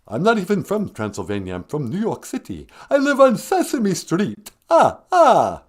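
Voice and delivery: light Count voice, laughing ah ah at the end; the Count on where he lives. Acted. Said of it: "the Count".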